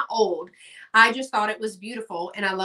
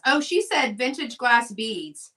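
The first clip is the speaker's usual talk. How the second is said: usual speaking voice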